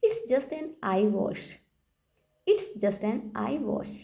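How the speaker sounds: very slow, word by word for learners; slow model sentence. Shown as a demonstration. Teacher repeats the phrase for the class, very slow. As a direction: lay each word out slowly. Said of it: "कहिए".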